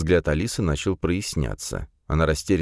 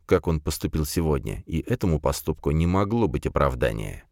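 ordinary delivery, nothing marked

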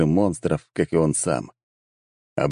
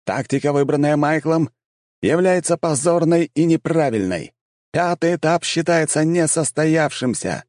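town crier; 9 semitones higher than usual. A narrator's reading. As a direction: announce it to the arena crowd. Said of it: "прозвучал голос глашатая".

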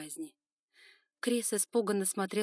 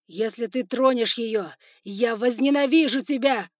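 furious threat; 4 semitones higher, 12 dB louder than usual. Acted. Son threatening his father while held back, loud fury. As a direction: strain against the hold and threaten. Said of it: "рвался Эван Байринг".

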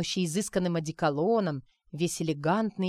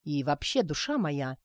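a touch of steel; 3 semitones lower than usual. Acted. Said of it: "добавил в голос железа".

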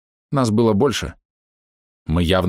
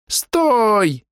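high sharp stop; shout; 14 semitones higher than usual. Acted. Orb shouts to stop her. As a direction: cry out too late. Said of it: "крикнул орб".

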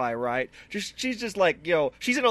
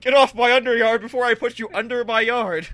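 menacing yard owner; 3 semitones higher than usual. Acted. Threatening kids off his yard.

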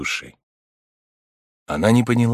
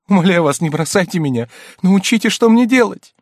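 much higher, louder, pleading cry; desperate begging; 11 semitones higher, 7 dB louder than usual. A narrator's reading. Kneeling countess begging the abbé for help, desperate cry. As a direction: beg him not to leave you.

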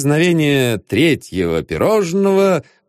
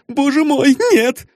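put-on high, distressed young lady; high desperate denial; frightened exclamation; 14 semitones higher than usual. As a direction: plead it in alarm. Frightened girl answers detective.

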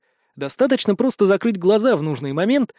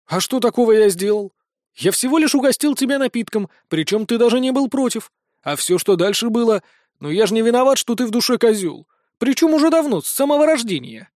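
mocking Vincent; 4 semitones higher than usual. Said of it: "имитируя ненатуральность удивления самого Винсента".

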